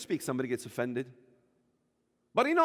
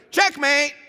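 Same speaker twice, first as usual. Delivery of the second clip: higher, louder cry of checkmate; triumphant exclamation; 7 semitones higher, 5 dB louder than usual. Real, not acted. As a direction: proclaim it like a winning move. Preacher exclaims punchline.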